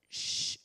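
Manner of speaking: "ch" as a long unvoiced hush, lips pushed forward; isolated phoneme. Shown as a demonstration. Teacher showing the gesture for a sound, "ch" held as a hush. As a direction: hold "ch" as a pure hissing sound, not letter names. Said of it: "ça accentue la projection des lèvres vers l'avant".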